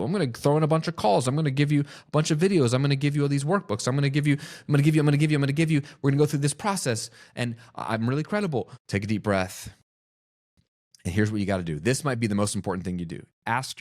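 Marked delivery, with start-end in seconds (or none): 0.0-8.7 higher, faster, piling on the extras; mock a seller stacking bonuses to feel secure; insecure overselling coach. Coach imitating an insecure seller listing everything, hurried and eager. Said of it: "focus on the things that make us feel secure".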